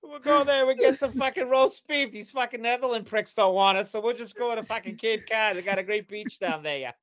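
loud Boston tough guy; Boston accent. Pretend. Puritans on the boat planning Cape Cod, loud Boston accent. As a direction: play it thick Boston, brash. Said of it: "They got dead Boston accents".

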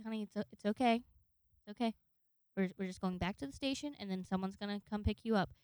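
softly voiced, reassuring older cop; calm someone down gently and quickly, in a soft retold voice; kindly old officer. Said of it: "real nice old guy".

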